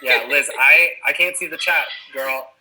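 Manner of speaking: calling out. Real, not acted. Calling out to chat.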